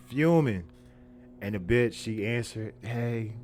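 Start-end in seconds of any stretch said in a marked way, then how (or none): 0.1-0.6 loud, high burst on one word; fuming emphasis. Retold or imitated. Storyteller reliving his anger on the couch, loud fuming emphasis. Acting out his fury, repeated. 2.8-3.3 lightly imitated seductive hello; mock sexy greeting. Woman answering his chirp, mildly mock-sexy. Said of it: "trying to be all sexy and shit".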